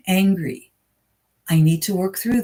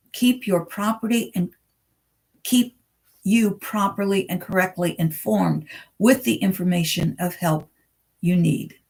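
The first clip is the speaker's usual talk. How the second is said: trips over the line, reads property for properly; a halting first read that says property where properly belongs; stumbling misread. Real, not acted. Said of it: "I kind of messed that up".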